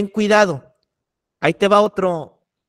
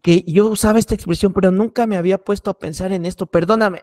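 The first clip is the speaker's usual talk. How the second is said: retold apology. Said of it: "me acerco con esta persona y le digo".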